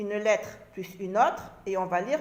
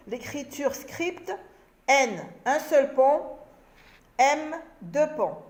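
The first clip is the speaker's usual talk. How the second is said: récapitulation lente; slower than usual. Shown as a demonstration. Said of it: "récapitule lentement".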